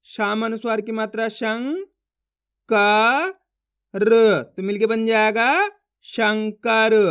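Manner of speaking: held शंग, loud long का, pause, र, then slow शंकर; spelling out. Shown as a demonstration. Teacher models each letter, slow sing-song build to शंकर. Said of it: "एक ही अक्षर का उच्चारण करेंगे".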